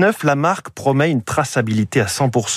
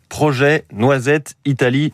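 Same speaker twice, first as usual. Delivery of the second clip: ordinary talk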